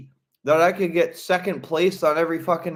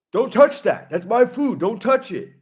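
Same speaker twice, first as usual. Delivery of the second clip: high, frantic imitated scolding; hammed-up possessive outburst; mock outraged yell; 7 semitones higher, 4 dB louder than usual. Imitated cook warning someone off his food, mock outrage.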